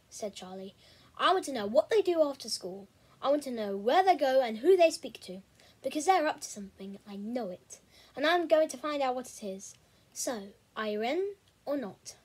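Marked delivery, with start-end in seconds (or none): 1.2-12.2 eager determined friend. Acted.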